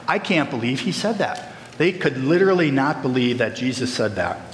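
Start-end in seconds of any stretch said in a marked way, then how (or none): 0.1-1.5 mock surprise. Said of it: "look at it with your biggest face of surprise".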